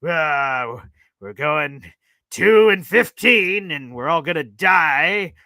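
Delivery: slow, loud mock despair; mock doom. Gloomy caller imitated with slow, hammed-up despair. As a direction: wail about the season like it's the end. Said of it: "Tony Alexio comes in".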